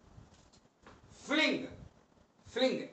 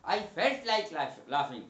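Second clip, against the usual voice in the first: slow dictation; much slower than usual. Shown as a demonstration. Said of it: "teacher repeating example sentence".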